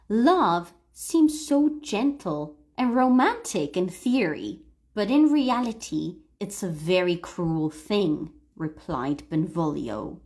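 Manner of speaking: deliberate, phrase-by-phrase story reading; read-aloud model. Shown as a demonstration. Teacher voicing Benvolio for students to repeat, measured model reading.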